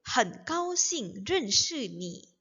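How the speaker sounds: slow, evenly separated Mandarin syllables; read-along. Shown as a demonstration. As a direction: model it slowly for learners to repeat. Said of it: "jadi kita baca bareng-bareng ya". (baca pelan agar bisa diikuti bersama)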